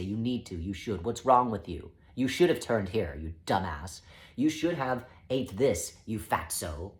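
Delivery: scolding inner critic, emphatic on each reproach; mean and judgy. Acted. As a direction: berate them like a nagging inner critic. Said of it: "it is inherently mean and judgy".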